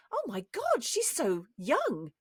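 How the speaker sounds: high exclamation, slowing on the last words; mock astonishment. Reacting to how young someone looks, mock astonishment. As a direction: gasp it as an amazed onlooker, high then drawn out.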